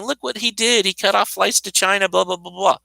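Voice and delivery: a mild taunting imitation of critics; half-hearted scoff at him; mocking tone. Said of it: "they're mocking him, saying".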